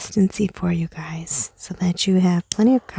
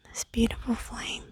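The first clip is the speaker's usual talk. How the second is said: "beautiful flame" repeated as a much softer trailing whisper; soft echo; 3 semitones higher, 11 dB quieter than usual. Shown as a demonstration. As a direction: let "beautiful flame" fade to a breath. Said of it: "And you can watch this beautiful flame".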